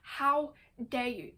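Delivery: mock indignation, slow and deliberate; retold angry rebuke. Man ripping into the woman who controlled him, mildly acted indignation. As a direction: draw it out as a mild, imitated telling-off. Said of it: "he rips into her".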